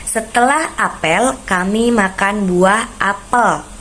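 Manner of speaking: "Setelah apel, kami makan buah apel" said slowly, each "apel" spelt out carefully; slow careful reading of "apel"; over enunciating. Shown as a demonstration. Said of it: "perhatikan contoh kalimat berikut ya".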